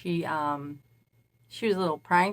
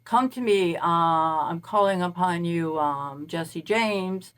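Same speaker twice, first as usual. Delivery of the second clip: mock summoning; 4 dB louder, slower than usual. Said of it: "you don't just say".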